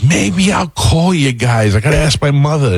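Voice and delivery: high, drawn-out mocking impression; put-on whiny brush-off; mimicking a big-shot comedian. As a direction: stretch it out high, mocking his airs. Mimics the comedian who blew up.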